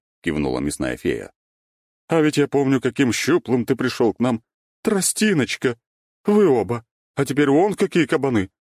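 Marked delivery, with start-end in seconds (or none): 2.1-8.5 high, loud, hearty praise; boisterous, pitched-up fond teasing; admiring meat fairy. A narrator's reading. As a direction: gush over how they've grown.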